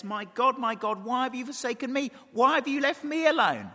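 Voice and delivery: imitated cry, pitched high; Jesus. Preacher voicing Jesus dying on the cross, high crying-out. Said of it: "he says".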